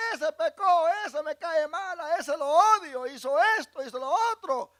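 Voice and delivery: a hint of a grudging, loud complainer; mock resentful believer. Preacher imitating a resentful brother, mildly scornful. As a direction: play the judgmental brother, scornful.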